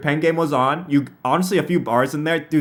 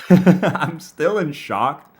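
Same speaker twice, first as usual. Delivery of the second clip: laughing through the words, slowly; stretched out between laughs; much slower than usual. Real, not acted. Repeats line laughing.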